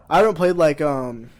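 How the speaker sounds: talking through a burp; a burp catching the words. Real, not acted. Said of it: "I'm burping from this fucking drink".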